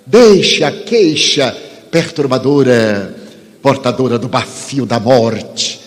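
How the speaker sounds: measured, fervent preaching with long pauses; sermon delivery. Acted. Preacher exhorting the audience to faith, fervent.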